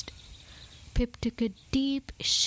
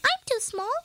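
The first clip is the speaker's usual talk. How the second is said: high squeaky excuse; squeaking mouse; 12 semitones higher, 3 dB louder than usual. A narrator's reading. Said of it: "squeaked one".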